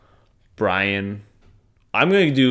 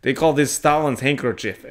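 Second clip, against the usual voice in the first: put-on Russian accent; 3 semitones higher, 4 dB louder than usual. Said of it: "My Russian accent is not terrible".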